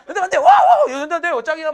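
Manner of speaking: very loud, high mock cheering; over-the-top jeering hype. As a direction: imitate a crowd whooping in fake admiration. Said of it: "계속 놀리는 거야".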